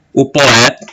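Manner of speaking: "O poeta" with "poé" merged into one syllable; "poeta" with its first two vowels in one beat; vowels run together. Shown as a demonstration. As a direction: say "O poeta" joining the o and é of "poeta". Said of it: "Poeta vai ser unido".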